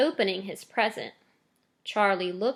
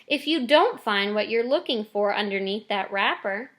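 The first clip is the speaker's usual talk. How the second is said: gentle. Acted. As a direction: soften the blow for her son. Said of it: "Missus Bucket said gently".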